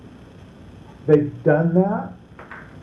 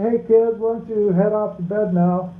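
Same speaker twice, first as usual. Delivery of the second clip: a breezy, casual suggestion, not meant; a dad casually tells kids to head to bed; offhand, not serious; 3 semitones higher than usual. Shown as a demonstration. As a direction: toss it off over your shoulder. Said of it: "I'm not that serious about it".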